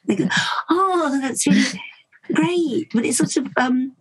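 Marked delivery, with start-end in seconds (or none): 0.7-2.9 feigned delight. Retold or imitated.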